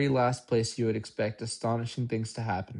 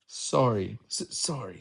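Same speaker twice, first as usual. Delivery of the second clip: sobbing. A narrator's reading. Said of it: "sobbed Hagrid".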